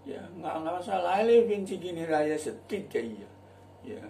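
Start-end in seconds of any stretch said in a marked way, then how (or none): 1.2-3.2 local accent English. Shown as a demonstration. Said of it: "Boleh ngomong gitu".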